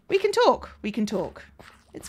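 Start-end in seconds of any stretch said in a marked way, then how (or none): 0.1-0.7 high sing-song. Acted. Repeated higher louder.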